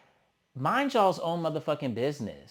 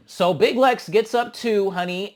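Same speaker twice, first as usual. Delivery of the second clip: normal talking voice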